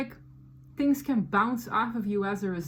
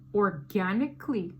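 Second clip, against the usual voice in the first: "organically" set apart, stressed on GAN; "organically" said deliberately as a word on its own; emphasis on organically; 2 semitones lower than usual. Real, not acted. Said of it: "emphasis on the word organically".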